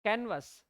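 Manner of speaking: कैनवस said KAN-vus with a short second vowel; correct canvas. Shown as a demonstration. Teacher to students, answering what the right pronunciation is. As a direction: model कैनवस clearly, stress on the first syllable. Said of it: "सही pronunciation क्या है?".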